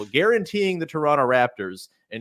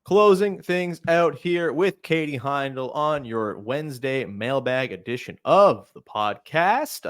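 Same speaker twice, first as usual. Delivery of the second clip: slow, lilting sing-song delivery; sing-songy voice; slower than usual. Pretend. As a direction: croon the intro playfully. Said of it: "I'm singing in a sing-songy voice here".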